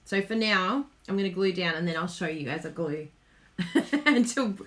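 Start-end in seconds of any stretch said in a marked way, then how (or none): none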